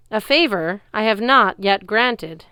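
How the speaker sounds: loud, slow growl; growling giant. Acted. Giant refusing Luke's request, loud slow growl. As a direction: grind the refusal out. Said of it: "Antaeus growled".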